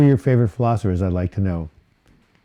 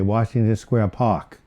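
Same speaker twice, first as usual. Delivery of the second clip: New York accent; slower than usual. Shown as a demonstration. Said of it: "That's how they say it in New York".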